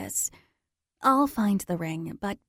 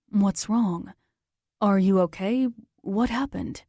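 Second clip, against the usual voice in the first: Zach's concern. Acted.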